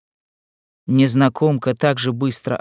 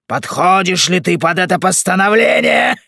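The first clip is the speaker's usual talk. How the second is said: raised, high ringing question; loud challenge; 8 semitones higher, 5 dB louder than usual. Acted. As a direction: call out the question, climbing at the end. Playful challenge to the veiled woman.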